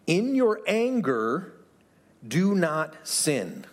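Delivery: slow and weighty, each phrase set apart; slow scripture reading. Acted. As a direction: read it like a solemn command. Reading scripture slowly, emphatic.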